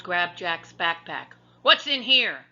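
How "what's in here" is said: higher, louder pirate demand. A narrator's reading. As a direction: demand it sharply. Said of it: "he demanded".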